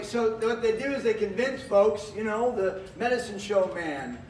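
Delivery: measured showman voice; theater voice. Real, not acted. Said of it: "I'll use my theater voice".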